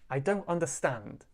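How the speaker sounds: "understand" stressed on STAND within the phrase; stress on final syllable. Shown as a demonstration. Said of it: "Stand is a little bit more stressed".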